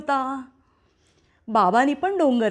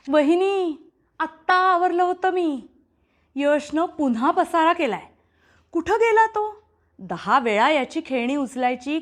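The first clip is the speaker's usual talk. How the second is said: complaining maid. Acted. Maid grumbles to the mother about Yash's mess. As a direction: moan about the mess to the lady of the house.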